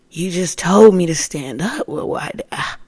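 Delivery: exasperated, sputtering protest; arguing. Retold or imitated. Woman arguing with voices that changed their orders, exasperated. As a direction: argue back, loud at first then stumbling. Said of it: "I'm arguing".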